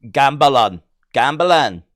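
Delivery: gambalon in a hint of Scottish; a light Scottish try at gambalon; imitating Scottish accent. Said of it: "Aye, that's how you say it".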